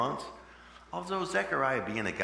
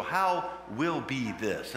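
slow wondering question; much slower than usual. Acted. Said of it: "Mary said to the angel".

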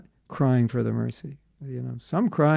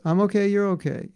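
Maya's mantra; 5 semitones higher, faster than usual. Acted. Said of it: "you know, Maya's mantras".

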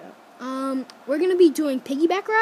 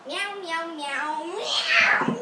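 cat meowing; 5 dB quieter, slower than usual. Acted. Meowing, ends in laughing shout.

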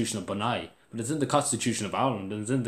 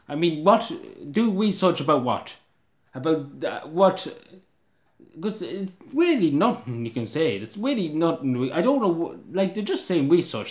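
exasperated rant; 5 semitones higher than usual. Real, not acted. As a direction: rant in disbelief at the comment. Ranting at hate comment.

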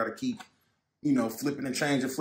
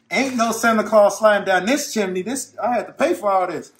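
jovial; 5 semitones higher, 7 dB louder than usual. Real, not acted. Loud joking brag.

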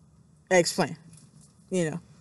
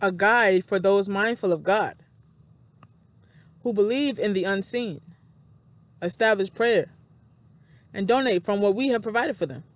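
scripture reading. Acted. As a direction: read holy text aloud deliberately, stressing key words. Reads scripture aloud.

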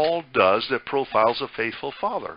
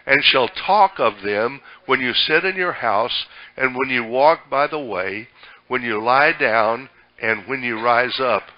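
slow, emphatic group Bible reading; Scripture read-aloud; 4 dB louder than usual. Real, not acted. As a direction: lead the congregation through the verse, measured and firm. Reads verse aloud with congregation.

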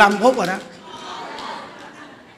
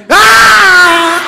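loud startling shout, much higher; sudden shout; 8 semitones higher, 10 dB louder than usual. Retold or imitated. Monk startling a chattering woman into silence, sudden loud shout. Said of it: "mình nói".

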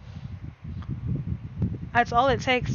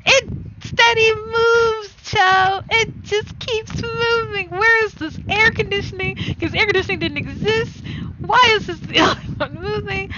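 amazed; 8 semitones higher, 4 dB louder than usual. Real, not acted. Streamer marvels at the headband in the game, high and amazed.

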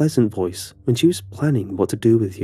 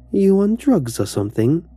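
high, louder sneering schoolgirl; mocking bully girl; 9 semitones higher, 4 dB louder than usual. Bully girl sneers at the stunned narrator, high and mocking. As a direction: sneer it down at him.

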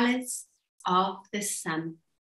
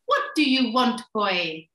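cartoon princess; 3 dB louder than usual. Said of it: "the princess called out to Lars".

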